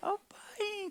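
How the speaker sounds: put-on small, thin child's voice in a breathy whisper. Retelling how little Isaac came up to his father, imitating Isaac's thin voice. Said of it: "falando com uma vozinha fina".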